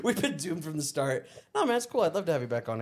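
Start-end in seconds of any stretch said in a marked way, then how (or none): 0.0-1.3 laughing. Retold or imitated. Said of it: "I was like".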